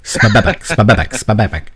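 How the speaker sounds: rapid flapping sound imitation; triple flapping sound. Shown as a demonstration. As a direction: make a triple slapping noise. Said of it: "It'd be like".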